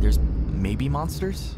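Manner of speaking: loud, slow drawn-out spooky question. Real, not acted. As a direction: ham up the monster hint. Spooky musing about monsters.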